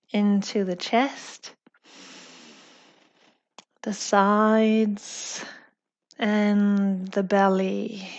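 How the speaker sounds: unhurried yoga teacher voice; calm yoga guidance. Real, not acted. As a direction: guide the class gently through each breath. Leads slow yoga breathing.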